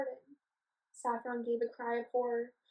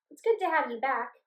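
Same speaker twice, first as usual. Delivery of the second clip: happy call; 2 semitones higher, 7 dB louder than usual. Acted. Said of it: "Amber called happily".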